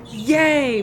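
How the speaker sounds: loud little mock cheer; relieved cheer. Player retelling feeling safe for a second, relieved cheer. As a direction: re-enact a burst of relief. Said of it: "made me feel so safe".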